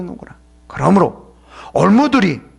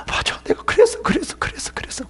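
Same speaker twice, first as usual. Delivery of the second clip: much higher, dying to a whisper; mock self-accusal; 6 dB quieter than usual. Congregation imagined confessing to the friends, fading whisper. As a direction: give in, fading to nothing. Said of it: "틀림없이 다".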